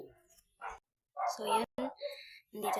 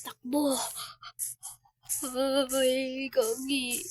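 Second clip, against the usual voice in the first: shouting; 3 semitones higher, 7 dB louder, much slower than usual. Real, not acted. Escape ends in dismay.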